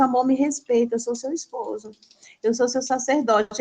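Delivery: imitating a meek, patient husband; mild, tender pleading as the calm spouse; gentle husband. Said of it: "ele fala, manso".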